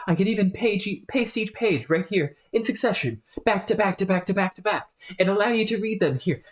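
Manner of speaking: streamer voicing a chatty British scholar; fussy, eager British accent, rattling on. Scholar offering his essays, in a British accent. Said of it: "whenever I break accent".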